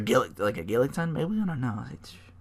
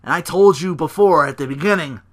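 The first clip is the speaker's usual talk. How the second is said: higher, loud-ish mock tirade; angry rant; 4 semitones higher, 4 dB louder than usual. Rollins berating a failed partner, raised mock anger. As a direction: chew him out, hammed up. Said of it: "he's like".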